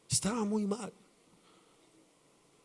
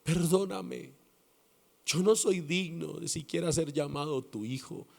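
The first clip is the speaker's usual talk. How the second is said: tearful plea; 3 dB quieter than usual. Retold or imitated. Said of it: "empezó a llorar y a llorar y a decirle".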